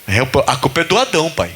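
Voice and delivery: lightly voiced weary Jesus; Jesus answering. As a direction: shrug it off as Jesus to the Father. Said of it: "Jesus falando pro pai assim".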